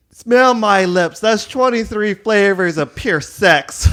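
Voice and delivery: loud, slow sultry brag; slow, loud mock-seductive diva; diva flirt. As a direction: flaunt it with sass. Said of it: "And I was like".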